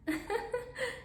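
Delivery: soft, high rippling laugh; light, musical demo laugh; beautiful feminine laugh. Shown as a demonstration. Teacher showing a laugh beautiful to listen to, soft and high. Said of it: "Isn't that beautiful to listen to?".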